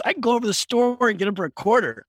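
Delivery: quick, high-pitched quoted pushback; mock haggling objection. Worker haggles with the kid.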